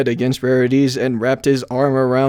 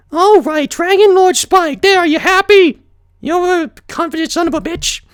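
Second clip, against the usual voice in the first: grudging praise; 14 semitones higher than usual. A narrator's reading. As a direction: overdo the flattery through your teeth. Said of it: "Better, Spike said".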